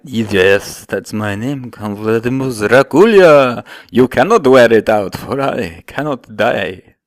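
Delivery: a lightly voiced, stately old count, loud on the first "well"; a hint of a vampire lord; Count character. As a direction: speak like a grand vampire count. Count introduces himself.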